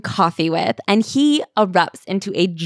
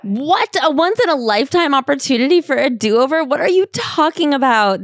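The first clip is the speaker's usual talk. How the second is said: high, disbelieving mock echo; incredulous; 6 semitones higher than usual. Real, not acted. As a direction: repeat it back in disbelief. Mocking incredulous repeat of quote.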